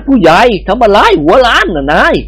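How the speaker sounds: lightly voiced Indian bandit; Indian babu voice. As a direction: play the amused bandit babu. Babu character voice.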